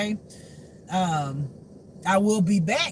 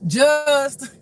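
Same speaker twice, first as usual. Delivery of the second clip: loud, high, drawn-out call; insistent name-calling; 5 semitones higher, 9 dB louder than usual. Retold or imitated. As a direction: holler the name to force a reply. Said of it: "he will continue to call my name".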